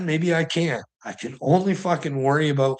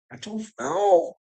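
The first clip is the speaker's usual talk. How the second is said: higher and slow, in a put-on voice; put-on musing voice; 7 semitones higher, slower than usual. Repeating his shrug in a mock voice, higher and slow. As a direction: stretch "I don't know" high and slow, like someone else musing.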